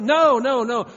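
high, shouted string of no's; loud, high protest; emphatic refusal. Acted. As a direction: cut yourself off loudly. Rejecting that, still shouting.

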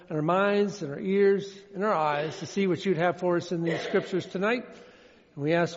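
soft, hushed prayer voice; hushed closing prayer fading to amen. Real, not acted. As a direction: pray quietly, head bowed. Pastor prays before reading.

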